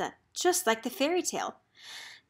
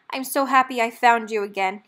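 smiling; 8 dB louder than usual. A narrator's reading. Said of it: "he smiled".

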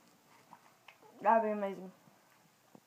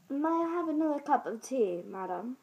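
British accent; 3 semitones higher than usual. Shown as a demonstration. Girl demonstrates British for viewers, British accent. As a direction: put on a polite British accent. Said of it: "That is British".

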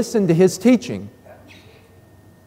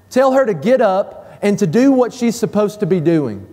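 higher, pushy, accusing questions; aggressive complaint; 4 semitones higher than usual. Acted. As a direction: demand he make her sister help. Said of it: "It's very aggressive".

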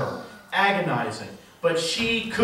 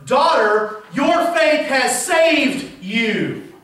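your faith has saved you, very slow and higher, each word weighed; slow solemn quote; 5 semitones higher, 4 dB louder, much slower than usual. Shown as a demonstration. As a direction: let it land slowly and gently. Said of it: "what it says in the literal Greek".

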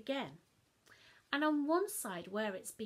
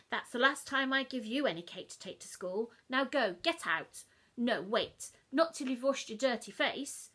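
louder telling-off; scolding Mum; 7 dB louder than usual. Acted. Mum telling off child, louder scold. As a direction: send the child off sharply.

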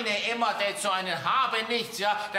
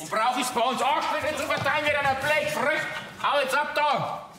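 angry shout; 5 semitones higher than usual. Acted. Father chases suitor off.

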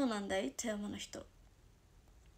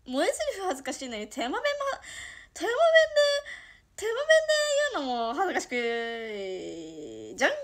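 real embarrassment; 3 semitones higher, 5 dB louder than usual. Real, not acted. Streamer complains about cute dialect lines, mortified.

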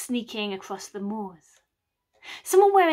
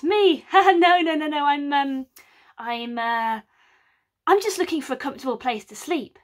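laughing denial, higher then rushing; nervous laugh; 3 semitones higher, 5 dB louder than usual. Acted. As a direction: laugh it off and babble fast. Mac nervously denying.

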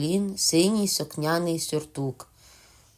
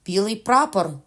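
louder, higher call of truce; shout; 4 semitones higher, 5 dB louder than usual. Acted. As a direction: shout it across the clearing. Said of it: "крикнув Сілвер".

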